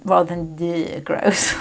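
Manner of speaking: a slow whispered "gross"; whispered aside. Shown as a demonstration. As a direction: breathe "the gross" as a hushed contrast. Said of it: "I didn't mean it gross as in".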